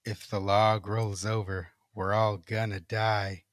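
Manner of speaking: slow, low eerie chant. Acted. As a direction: drone it out slowly like a ghost. Ghostly voice repeats.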